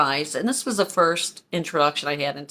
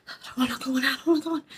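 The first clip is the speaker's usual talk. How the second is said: put-on small, high, soft little-kid voice; four-year-old child; 7 semitones higher, 5 dB quieter, much faster than usual. Child refusing to enter the house, small pleading voice. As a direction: whimper it like a reluctant small child. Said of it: "Imagine me as a four-year-old".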